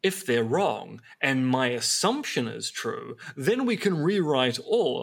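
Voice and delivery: lightly put-on unnamed accent, mocking Graham Hancock's reasoning; a touch of a put-on accent while parodying; mock documentary accent. Parodying Graham Hancock's claims to a co-host, in a light put-on accent. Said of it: "I don't know why I'm doing that accent".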